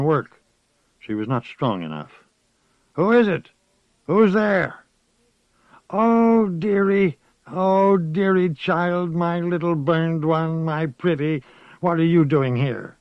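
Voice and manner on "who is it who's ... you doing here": put-on high, quavering old woman's voice, fearful then fond; a frightened old witch calling her dearie; old witch Moss. A narrator's reading. Frightened old witch greets the child, high old voice.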